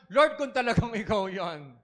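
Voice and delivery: slow, lightly voiced doubting plea. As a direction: ask God for proof, unsure. Doubting believer asks for proof. (pagdududang pakiusap)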